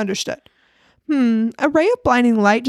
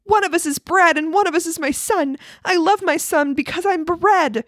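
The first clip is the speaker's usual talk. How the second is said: shouting bread; 6 semitones higher than usual. Acted. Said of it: "the bread keeps shouting".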